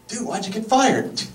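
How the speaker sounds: high mock voice asking why; fired guy impression. Asking a fired friend, pitched high and mocking. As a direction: toss it off high like a curious buddy. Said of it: "Here's my impression of anyone".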